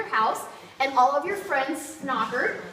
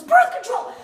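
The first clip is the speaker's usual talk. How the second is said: loud, higher proud blurt; girl proudly shouting her find beside her mother; 8 semitones higher, 7 dB louder than usual. Retold or imitated. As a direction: announce it like you won.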